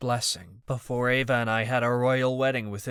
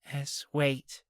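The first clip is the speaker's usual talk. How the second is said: kind; 4 semitones higher than usual. A narrator's reading. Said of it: "Opal said kindly".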